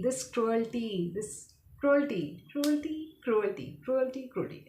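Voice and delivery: cruelty repeated carefully as "CRU-el-tee"; practising cruelty. Real, not acted. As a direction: drill cruelty under your breath, "CRU-el-tee". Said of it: "pronounce the word properly".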